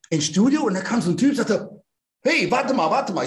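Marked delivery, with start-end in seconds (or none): 2.2-3.2 high-pitched, urgent stop-him call; challenging stranger. Retold or imitated. Gym man stopping a newcomer, urgent challenge. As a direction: act out a man blocking the way.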